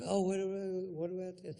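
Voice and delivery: high, eager fan voice pestering a celebrity; whiny fan pushing in close; squeaky mock fan asking a favour.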